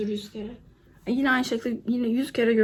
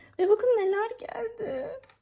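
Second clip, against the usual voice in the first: very high, emotional, moved almost to tears; 11 semitones higher than usual. A video maker showing viewers what arrived in the mail, emotional, close to tears. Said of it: "Yani duygusalım şu an, çok duygusalım".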